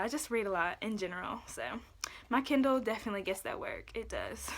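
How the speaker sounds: slightly out of breath from talking fast; breathless from rushing through it. Real, not acted. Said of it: "I'm out of breath from trying to say this so fast".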